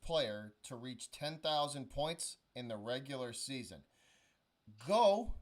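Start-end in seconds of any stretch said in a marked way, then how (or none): 4.9-5.3 sharp loud "go"; shouted cue. Real, not acted. Host cues the contestant to answer, loud sharp go. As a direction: bark the start signal.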